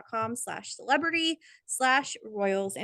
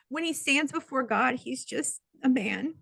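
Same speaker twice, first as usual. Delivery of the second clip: higher and slow, voice catching with real feeling; emotional, holding back tears; 4 semitones higher than usual. Real, not acted. Telling co-host about the king's anointing, slow and choked up. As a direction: let the emotion rise as you slow down. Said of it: "this makes me wanna get emotional".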